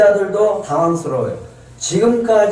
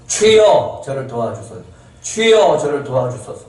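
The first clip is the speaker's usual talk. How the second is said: imitated persistent pleading. Mother pleading with the Lord for help, imitated persistent supplication. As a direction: call out, then drop into supplication. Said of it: "계속 간구하는 거예요".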